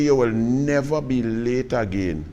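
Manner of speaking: slow, soft, grave warning from the coach; stern coach warning. Retold or imitated. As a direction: lay down the law quietly and slowly. Coach scolds late player.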